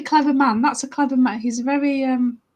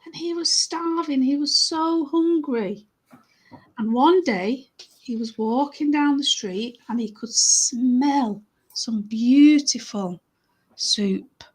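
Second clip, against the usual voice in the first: slow, emphatic story narration; unhurried tale for children; storytelling; slower than usual. Acted. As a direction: linger on the key words.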